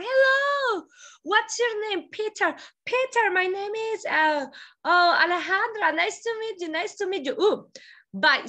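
acted street greeting. Acted dialogue with a foreigner.

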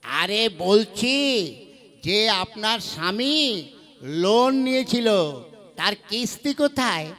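loud and slow, spelling it out for a deaf listener; slow loud explaining. Acted. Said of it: "গলা ভেঙে গেছে চেঁচাতে চেঁচাতে". (বধির মহিলাকে ধীরে জোরে বোঝানো)

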